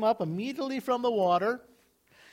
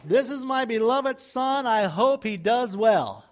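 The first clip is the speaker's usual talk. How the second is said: mock lukewarm approval; 2 semitones higher than usual.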